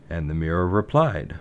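usual speaking voice

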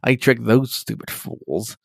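slow sinister gloating; maniacal villain. Retold or imitated. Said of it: "maniacal, like, fucking Joker smile".

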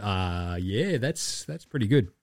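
sheepish mumble. Retold or imitated. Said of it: "he's like".

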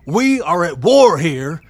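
angry outburst. Acted. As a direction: shout him down, he won't budge. Heated standoff at the gate.

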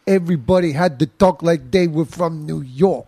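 imitated full-blown New York accent; big New York accent. Recalling Brits faking American, big New York accent. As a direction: lay on a thick mock New York accent. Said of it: "like the big New York".

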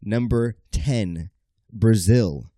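building game-show countdown; countdown announcer. Acted. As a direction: announce it like a top ten list.

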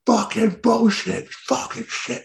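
high, slow strangled mock yell; fan going mental. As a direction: imitate a raging fan, drawing out the swearing. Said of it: "It's like, going mental".

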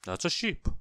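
hesitant, rising correction; mildly embarrassed second look; sheepish realization. A narrator's reading. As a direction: admit the mistake, voice climbing. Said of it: "he blushed".

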